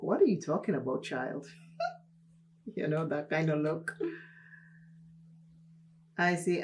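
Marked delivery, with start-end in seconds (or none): 0.0-1.5 lightly voiced incredulous mother; quick mock disbelief, dropping away on the last word; imitating mom's disbelief. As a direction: brush off a silly question, as mom would. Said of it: "She looked at me like".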